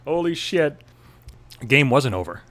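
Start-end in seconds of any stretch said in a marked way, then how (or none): 0.1-0.8 high loud whooping cheer; imitating bachelorettes cheering; mock cheering women. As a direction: whoop it up like a rowdy crowd. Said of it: "all the broads cheered, like".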